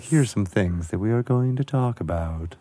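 zen calm. Retold or imitated. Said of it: "He was very zen about it".

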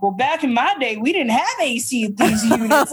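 lightly voiced old lady. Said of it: "Why do you act like you're eighty?".

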